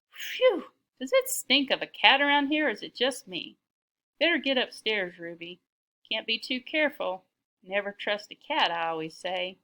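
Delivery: a hint of folksy old lady; grumbling Granny. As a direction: play a fussy grandmother, lightly. Voices Granny, grumbling about cat.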